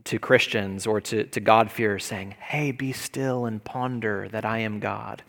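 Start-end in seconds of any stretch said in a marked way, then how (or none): 2.4-5.2 calm comfort. Shown as a demonstration. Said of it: "as the calm comfort".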